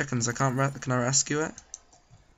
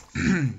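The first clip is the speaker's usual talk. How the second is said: clearing throat; 2 semitones higher than usual. Real, not acted. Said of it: "This dust in my throat".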